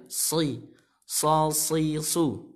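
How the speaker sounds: "Si, so, si, su" with heavy s; thick whistling sad. Shown as a demonstration. Teacher gives practice sounds, "so, si, su" thick. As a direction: let each s of "so, si, su" whistle thickly. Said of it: "Seperti suitan burung".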